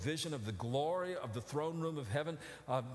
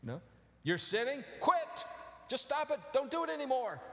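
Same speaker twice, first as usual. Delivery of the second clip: mock advice; 6 semitones higher than usual. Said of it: "Their answer is".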